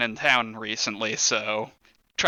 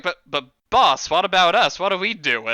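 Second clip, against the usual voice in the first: whiny henchman; 4 semitones higher, 4 dB louder than usual. Acted. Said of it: "One of them looks at him and is like".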